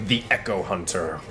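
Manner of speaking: dramatic recap over music; story narration. A narrator's reading. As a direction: narrate the saga grandly.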